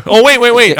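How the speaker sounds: loud, high, urgent "wait"; excited rush to hold the floor; sudden interruption. Real, not acted. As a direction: jump in as if just remembering. Suddenly remembers one more item.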